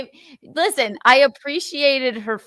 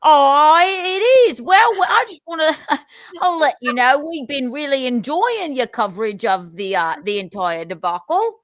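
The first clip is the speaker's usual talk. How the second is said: mock British accent. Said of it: "I can't say whippet in a British accent".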